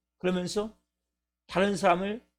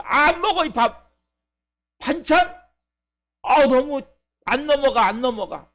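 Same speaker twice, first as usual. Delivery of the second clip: put-on fussy child; 2 semitones higher than usual. Voicing a child refusing rice.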